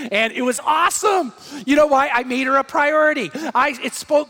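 emphatic preaching. Real, not acted. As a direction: raise it up and drive the point home.

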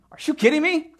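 a wronged wife scoffing in disbelief; imagined Bathsheba. Retold or imitated. Bathsheba scoffing at David, high incredulous outburst. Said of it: "Can only imagine her thoughts".

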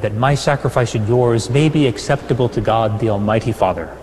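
normal talking voice

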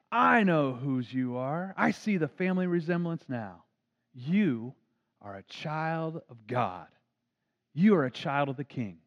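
slow, tender reassurance; reassuring pastor. Retold or imitated. Pastor comforting an embarrassed boy, slow and tender. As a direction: gently tell the boy he belongs.

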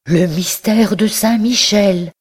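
slow and high, a joyful cry. A narrator's reading. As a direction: burst out in delight. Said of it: "en poussant un cri de joie". (cri de joie, lent et aigu)

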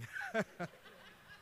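a bright high laugh that rises. Real, not acted. Laughing at his own doubt about hearing God. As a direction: burst out laughing at himself.

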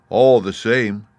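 a lightly voiced Scarecrow. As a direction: start firm and loud. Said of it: "said the Scarecrow".

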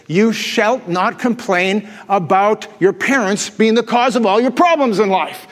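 slow, solemn mock commandment; mock solemn decree. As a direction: intone it like scripture, slowly. Pastor recites mock commandment.

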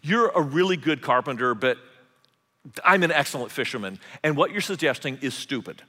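a touch of scornful pride; mock indignant fisherman. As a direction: talk down to the carpenter, half in jest. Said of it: "said something like this".

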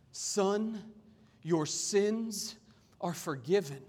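measured, expressive Bible reading; scripture reading. Acted. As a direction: read scripture aloud with deliberate emphasis. Reads scripture to congregation.

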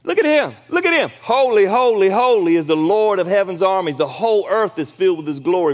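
high, loud shouts of praise; yelling in awe. Retold or imitated. Angels yelling to each other before God, loud and high. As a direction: cry out overwhelmed with awe. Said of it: "they just yelling at each other".

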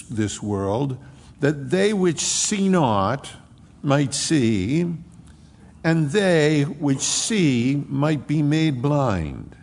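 slow, solemn King James reading; scripture reading. Acted. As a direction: read the old words with weight.

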